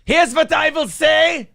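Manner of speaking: Adolf voice. Acted. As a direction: speak as a pompous Hitler character. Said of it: "What's Adolf's thoughts".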